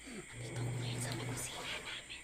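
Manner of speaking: hushed whisper in hiding; whispering while hiding. Real, not acted. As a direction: whisper so you stay hidden. (pabulong habang nagtatago)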